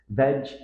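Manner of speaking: vegetable as vej-uh-tuh-bul, spaced out; all four syllables. Shown as a demonstration. Teacher imitating learners' attempt, all four syllables. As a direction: give every syllable of vegetable its own beat. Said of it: "pronounce all four syllables".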